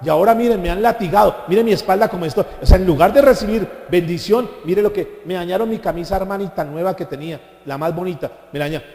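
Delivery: grumbling Pedro. Pretend. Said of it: "Y comenzó a renegar". (Pedro quejándose, en broma, con voz más fuerte)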